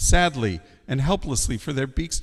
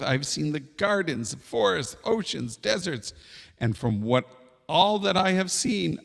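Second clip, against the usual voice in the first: lightly voiced little bird, higher pitched; earnest hoopoe; 4 semitones higher than usual. Hoopoe bargains with the king, earnestly pleading. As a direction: plead your case as a small bird.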